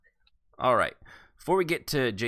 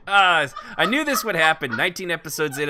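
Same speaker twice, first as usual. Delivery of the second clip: exasperated outburst; 8 semitones higher, 9 dB louder than usual. Real, not acted. Groans at own flub.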